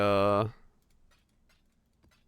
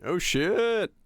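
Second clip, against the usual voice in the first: surprised exclamation; 8 semitones higher than usual. Real, not acted. Reacting to aurora photo.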